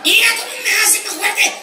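loud, high and laughing; laughing shout. Retold or imitated. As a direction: squeal it out amused. Girlfriend excited.

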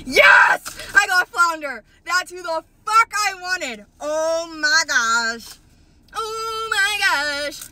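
high-pitched thrilled outburst; real excitement. Real, not acted. Vlogger shows fans the toy she wanted, thrilled. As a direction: squeal with joy, stretching the oh-my-goshes. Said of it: "I'm so excited".

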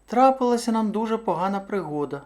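high-pitched hare breaking bad news; high, apologetic storybook hare. A narrator's reading. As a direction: explain meekly in a high little voice. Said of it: "мовив заєць".

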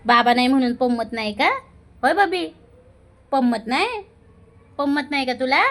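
high cooing questions, rising at the end; pet talk. Real, not acted.

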